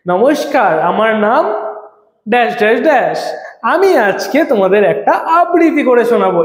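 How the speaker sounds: a hint of a student on stage introducing a poem; recitation introduction. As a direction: imitate a child announcing a recitation. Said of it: "এভাবে করে করেছো?".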